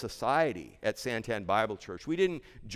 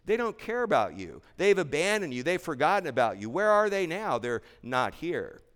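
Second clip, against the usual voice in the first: lightly voiced sneering enemies, higher; mock the accusers' taunts a little higher; mocking accusers; 4 semitones higher than usual. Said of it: "the enemies of the gospel were telling".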